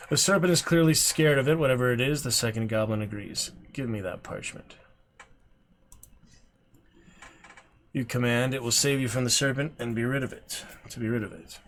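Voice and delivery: measured storyteller read, calm; gamebook narration. A narrator's reading. Streamer reading the gamebook aloud, steady storyteller voice. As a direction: read the marsh scene to viewers.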